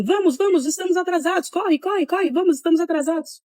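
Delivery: high, rushed hurry-up shout; retold urgent shout. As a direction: hurry everyone along as if late. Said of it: "ele tava gritando assim".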